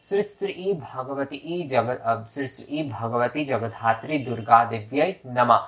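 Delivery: slow, drawn-out Sanskrit offering formula; deliberate teaching recitation of a mantra. Shown as a demonstration. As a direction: recite it slowly at first so learners can follow. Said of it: "उसमें कहना होगा".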